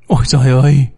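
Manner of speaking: a touch of a horrified cry; understated cry of shock; mild shriek. Acted. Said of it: "rú lên". (thốt lên kinh hãi nhẹ)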